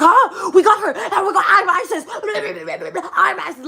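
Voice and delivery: high, laughing mock taunt; mocking laughing imitation. Mocking the speaker to her face, laughing and high-pitched. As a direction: cackle it out like a gloating mocker. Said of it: "you're mocking me".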